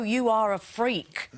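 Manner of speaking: slow, deadpan put-down; blunt mock local. Housemate imitating locals rebuffing a creepy compliment, slow and blunt. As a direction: spell it out slowly, no sympathy. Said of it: "they would go".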